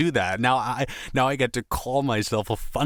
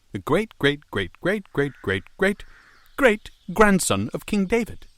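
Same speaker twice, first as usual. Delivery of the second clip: dark lord; 6 semitones higher, 3 dB louder than usual. Acted. Messiah boasts lineage grandly.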